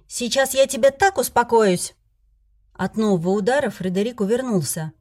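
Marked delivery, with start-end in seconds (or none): 0.1-1.9 higher, louder furious threat; fierce threat. Acted. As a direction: promise a beating through your teeth. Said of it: "кивнула свирепая". (угрожающе, громче и выше)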